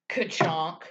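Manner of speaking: mock ka-chonk thud; a quick mouth-made chop, ka-chonk; imitated cleaver chop. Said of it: "then it's like".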